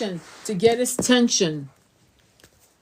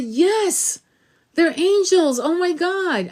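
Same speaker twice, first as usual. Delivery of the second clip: higher, thrilled mom's voice; excited mom; 9 semitones higher, 3 dB louder, slower than usual. Retold or imitated. Mother agreeing on the phone, higher and thrilled. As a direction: imitate mom overjoyed. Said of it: "And she said".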